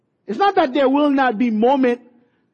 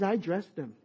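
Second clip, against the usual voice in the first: voicing God; 3 semitones lower, 3 dB quieter than usual. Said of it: "God says".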